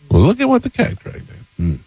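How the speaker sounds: very high-pitched put-on southern accent. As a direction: squeak it out in a mock southern accent. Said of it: "Why did you say it in that voice?".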